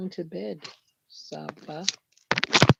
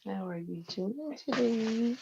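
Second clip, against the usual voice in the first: sing-song greeting; 5 semitones higher than usual. Pretend. Repeats greeting slower, higher.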